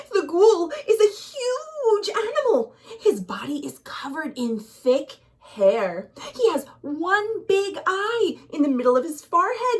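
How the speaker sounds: high, loud, fearful cry; terrified voice. Acted. Aunt terrified, warning Hassan about the ghoul. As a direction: tremble out the warning in terror. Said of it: "She answered in a terrified voice".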